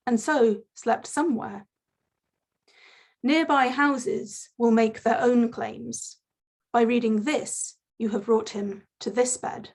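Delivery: measured poem recital with pauses between phrases; poetry reading. Acted. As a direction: read the poem out line by line, lifting the start of each phrase. Reads own poem aloud.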